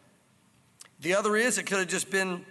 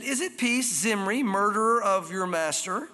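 unfriendly challenge; slower than usual. Acted. Jezebel to Jehu arriving at the gate, unfriendly challenge. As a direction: confront him with a pointed question. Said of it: "Doesn't sound like she's trying to be too attractive".

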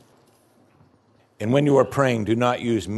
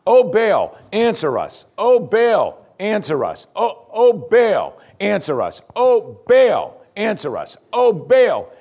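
high, loud cry on each Oh Baal, answer dropping back; repeated wailing cry; 8 semitones higher, 4 dB louder, slower than usual. Shown as a demonstration. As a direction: chant it over and over, pleading. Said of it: "That's just five seconds I did it".

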